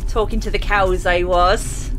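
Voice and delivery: hammed-up West Country farm talk; West Country accent. Shown as a demonstration. Gamer mimicking their childhood speech, West Country accent. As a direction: put on a broad country accent. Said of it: "That is definitely how I used to sound".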